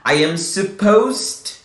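"supposed" as two syllables, ending in a crisp t; slow model "supposed", no extra syllable at the end; correct supposed. Shown as a demonstration. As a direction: say "supposed" slowly as suh-POHST. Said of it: "a expressão é sempre".

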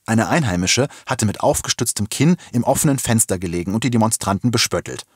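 plain reading voice

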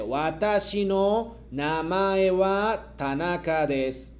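slow, deliberate model sentence; slow model reading. Shown as a demonstration. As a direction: read it slowly for the class to repeat. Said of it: "yo leo y luego ustedes me repiten".

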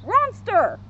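high dog-talk shout, R replacing the M; "Ronster" called out high, starting on an R; Scooby-Doo. A narrator's reading. Scooby takes Shaggy for a monster, high dog-talk shout. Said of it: "he heard Scooby shout".

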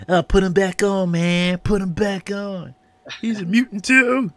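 high, loud mock yell from the crowd; mocking shout. Bar crowd yelling to put him back on, high and loud. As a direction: shout it like a rowdy bar guy. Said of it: "let me see if I can do it".

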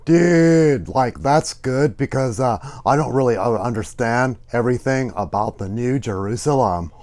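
laid-back puppet sidekick saying dude. Pretend. Puppet admits confusion about the New Jerusalem, casual dude voice. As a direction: play an easygoing, puzzled kids' show puppet.

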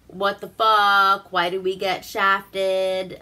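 slow, mock outrage; retold anger. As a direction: draw out his complaint in mild mock anger. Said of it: "And he's mad".

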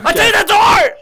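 overacted hurt scream; mock tearful outrage. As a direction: wail it like a betrayed child. Mock offended crying shout.

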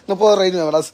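laughing through a sore throat; in pain. Real, not acted. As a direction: hold back a laugh, throat hurting. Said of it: "me duele la garganta".

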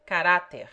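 "Caráter" with the stress on á; Portuguese example word. Shown as a demonstration. Tutor demonstrates the short Portuguese e. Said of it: "A in winter".

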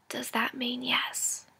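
slow, soft whispered question; hushed, slow whisper at a sickbed. Acted. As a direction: whisper it so as not to break the moment. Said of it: "in a whisper".

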